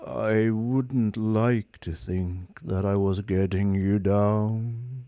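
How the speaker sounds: slow, lifeless robot voice; bored superior machine; depressed robot drones on; gloomy robot. Acted. Marvin's voice.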